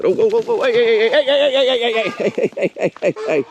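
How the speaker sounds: high, alarmed hey hey hey; rapid high calls to stop the donkey; calling out. Real, not acted. Owner calling out to stop a donkey chasing goats, alarmed high calls.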